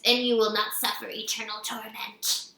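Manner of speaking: put-on menacing Southern accent, kept even; hissing Southern threat. A narrator's reading. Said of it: "she hissed".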